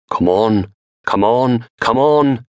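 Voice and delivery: each come on climbs in panic; rising desperation. Acted. Trembling hand forcing knife slider.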